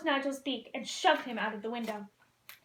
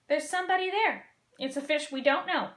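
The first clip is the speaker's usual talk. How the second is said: nervous; 3 semitones higher than usual. Acted. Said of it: "Marlin said nervously".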